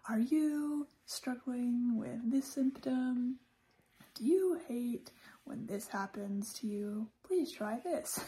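TV ad pitchman; infomercial voice. Pretend. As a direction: sell it like a late-night ad. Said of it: "it sounds a little bit like an infomercial".

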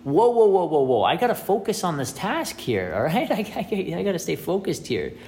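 a man jolted out of focus; startled man. Retold or imitated. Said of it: "I'm going".

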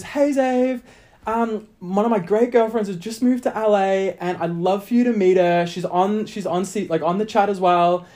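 high, lightly voiced girl friend; friend's message. Reading out friend Lisa's Facebook message, high mock girly voice. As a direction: read the message like a bubbly girlfriend.

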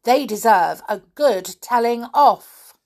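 cross scolding with loud bursts. Acted. Nanny finds a mess in the nursery, cross. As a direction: grumble and scold like an annoyed nanny. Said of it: "said Nanny crossly".

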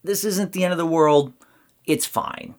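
calm adult voice. Retold or imitated. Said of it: "adding the adult voice".

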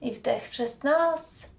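guided breathing. Acted.

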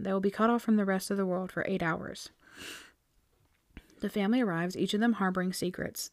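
blurb read. Acted. Reading Goodreads blurb.

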